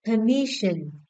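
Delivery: "Permission" with the middle syllable stressed; stress on second syllable. Shown as a demonstration. Teacher checking stress answers with class, second-syllable stress on "Permission". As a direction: lean on the "mis" of "Permission". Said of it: "The second syllable".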